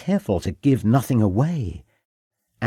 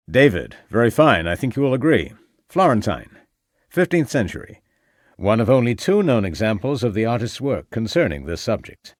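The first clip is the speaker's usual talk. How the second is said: put-on American accent. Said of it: "said the American owner of the voice".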